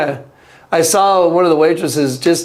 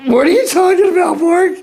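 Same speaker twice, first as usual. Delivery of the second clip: much higher, bewildered question; baffled; 13 semitones higher than usual. Retold or imitated. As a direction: sound completely lost. Confused by the crying friend.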